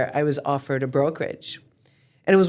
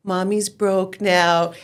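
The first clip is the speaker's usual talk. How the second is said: slow mommy explanation; much slower than usual. Retold or imitated. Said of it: "I was like".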